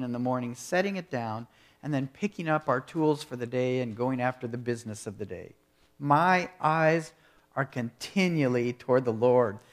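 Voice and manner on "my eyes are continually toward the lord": proclaimed motto. Shown as a demonstration. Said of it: "I believe this should be our motto".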